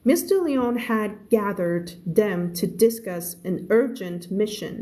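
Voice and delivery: very slow, clear story reading; slow read-aloud. Shown as a demonstration. Teacher reading a novel aloud to her class, very slow. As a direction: read each word out slowly for learners.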